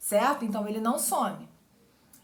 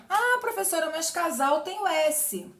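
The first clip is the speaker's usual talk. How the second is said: high, protesting student voice; mock student objection; 5 semitones higher than usual. Teacher imitating a student who objects, higher and protesting. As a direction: pipe up like a doubtful pupil.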